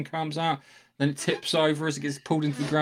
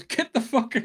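Klingon shout; 9 semitones higher than usual. Retold or imitated. Klingon commander yelling at his crew to flee, hammed-up shout. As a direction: bark the order like a panicked Klingon. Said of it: "and he goes".

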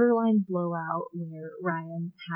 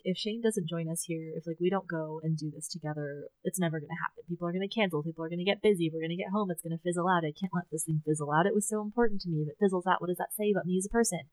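worried thoughts tumbling out quickly; hurried run-on worrying, clauses piling up; anxious sped-up rush; faster than usual. Retold or imitated. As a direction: rattle through a mock anxious spiral. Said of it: "'cause I sped up aggressively".

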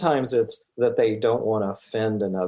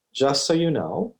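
lightly put-on dad voice, pitched up; a hint of a dad giving notice; 4 semitones higher than usual. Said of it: "get your dad voice on".

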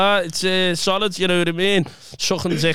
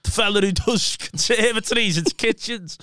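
high-pitched questioning mum; raised pitch, imitating mum's question; 6 semitones higher than usual. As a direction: mimic mum quizzing a stranger. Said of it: "And I said to him".

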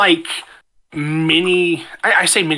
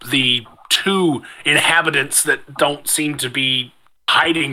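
measured storyteller narration; game master recaps last session for the group, measured narration. Acted. Set the scene like a storyteller.

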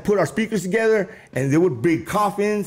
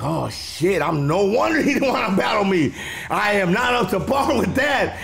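rising into a laughing shout; retold, half-yelled amazement; excited disbelief; 4 semitones higher than usual. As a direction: admit defeat in thrilled shock. Realising he is outclassed.

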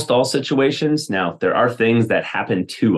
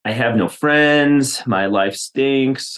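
higher, slow retold complaint; mock whining; 5 semitones higher, much slower than usual. Sulking friend complains about her life, mock whiny. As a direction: imitate a mild, drawn-out whine. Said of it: "complaining and complaining and whining".

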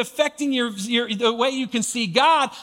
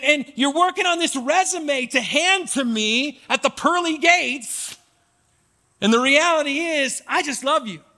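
tender reassurance; 4 semitones higher than usual. Acted. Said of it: "this upside down kingdom is saying".

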